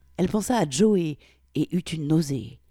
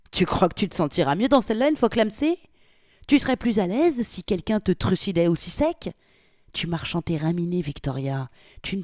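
fast, louder menace; sneering threat; 3 semitones higher, 4 dB louder than usual. Acted. Polly mocks Victoria, fast sneering threat. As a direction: rattle off the threat with contempt.

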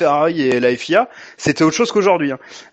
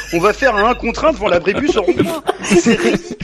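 laughing; 5 semitones higher than usual. Real, not acted. Mocking Hamilton, laughing.

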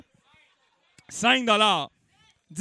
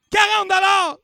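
loud, much higher bid call; auction call; 11 semitones higher, 7 dB louder than usual. Real, not acted. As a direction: announce the jump in price to the room. Auctioneer calling out bids. (annoncer la mise très fort)

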